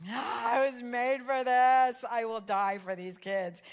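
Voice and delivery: dog's voice. Pretend. Voicing the dog's contentment.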